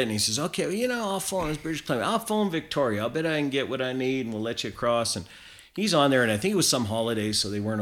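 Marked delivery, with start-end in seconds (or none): 0.4-5.2 higher-pitched mock American accent; bad American accent. Canadian hunter voicing the border guard offering to phone, terrible American accent. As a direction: imitate a helpful American border officer. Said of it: "I'm putting on this terrible American accent".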